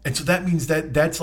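ordinary talk, nothing marked

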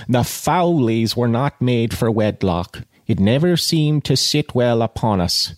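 measured audiobook reading; literary narration with pauses between phrases; story narration. A narrator's reading. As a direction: read the novel aloud with deliberate phrasing.

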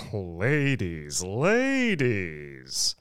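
soft, drawn-out soothing murmur. A narrator's reading. Mister Thurkle serenely calming the complaining ladies, murmuring. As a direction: hush them gently, stretching each word. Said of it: "murmured Mister Thurkle".

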